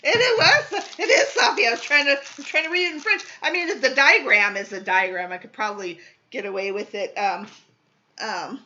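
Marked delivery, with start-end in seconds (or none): 0.0-3.2 laughing high and loud; bursting with laughter while talking. Real, not acted. Laughing at own French attempt.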